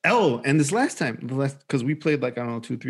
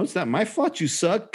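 higher, mocking kid's taunt; gloating trash talk; 6 semitones higher, 3 dB quieter than usual. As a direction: imitate a child rubbing in the win. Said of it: "kind of talk".

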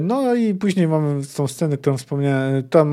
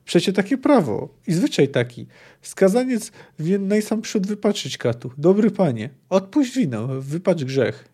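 higher, mildly fretful appeal; troubled pleading; 5 semitones higher than usual. Acted. Executioner begs the poet to follow custom, troubled. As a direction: plead with swooping, worried emphasis. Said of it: "zafrasował się Małodobry".

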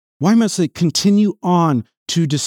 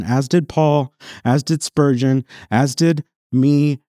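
each "did" hit hard, slowing into "as did me"; stress on did. Acted. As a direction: lean on "did" every time. Rhetorical list of sinners.

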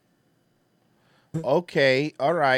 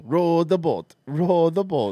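mock Jamaican accent; slower than usual. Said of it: "doing a Jamaican accent".

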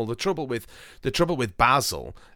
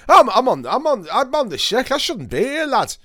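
mock self-pity; 13 semitones higher, 8 dB louder than usual. Mock-pitiful complaint of illness.

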